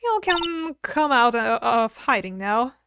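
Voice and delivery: a touch of Southern twang; Southern woman voice. Acted. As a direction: play a sassy country gal. Southern character.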